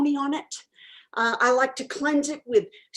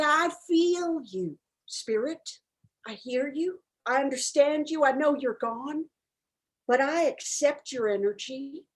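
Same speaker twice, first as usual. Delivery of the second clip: tender to spirit; 4 dB quieter than usual. Retold or imitated. Medium softly reassuring a dead lady's spirit, tender. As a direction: soothe the spirit gently. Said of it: "I really say".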